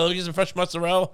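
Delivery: "mozzarella" clipped to mutsarel, a touch Italian; quick, lightly Italian deli order. Shown as a demonstration. Splitting the difference at the deli, a touch of Italian accent.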